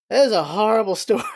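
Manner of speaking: quick line broken by a real laugh; laughing through it. Real, not acted. Telling viewers about a horrible story, laughing. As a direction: laugh mid-sentence at the grim story.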